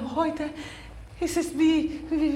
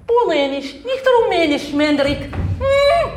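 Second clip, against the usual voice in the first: ordinary delivery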